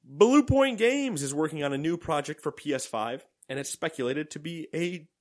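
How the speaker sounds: reading through hiccups. Real, not acted. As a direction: hiccups breaking the read.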